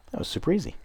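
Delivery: high, sing-song mock praise. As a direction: squeak it out in a mock sweet voice. Repeats the line, mock sweet.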